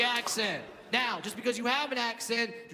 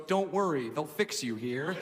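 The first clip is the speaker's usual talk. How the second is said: lower, slowing to a comforting close; mock reassurance; 6 semitones lower than usual. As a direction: reassure gently, as a kid consoling an adult. Sick child reassures the comedian.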